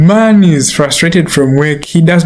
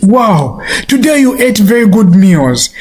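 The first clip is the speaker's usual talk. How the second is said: raised-pitch, half-hearted shout; mock shouting; 6 semitones higher than usual. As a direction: scold the dog with words of praise. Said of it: "he shouts at the dog".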